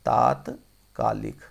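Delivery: तात्कालिक drawn out slowly, long first आ; slow spelling-out. Shown as a demonstration. Teacher slowly repeating the correct word to students. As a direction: stretch तात्कालिक out for the class. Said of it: "तात्कालिक होता है".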